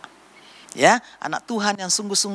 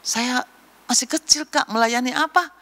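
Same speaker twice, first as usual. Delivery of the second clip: put-on higher-pitched small child voice; little child; 5 semitones higher than usual. Small child asking Kak how to serve, high child voice. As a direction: ask it like a timid little one.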